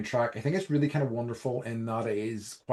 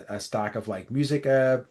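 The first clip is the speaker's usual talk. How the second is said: ordinary delivery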